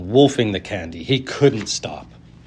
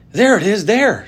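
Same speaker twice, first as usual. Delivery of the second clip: much higher and louder, pointing; excited crowd cry; shouted; 11 semitones higher, 6 dB louder than usual. A narrator's reading. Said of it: "someone else shouted".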